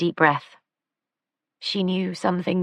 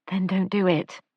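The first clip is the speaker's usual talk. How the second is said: gentle chiding; 3 semitones higher than usual. Acted. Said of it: "Lila chided him gently".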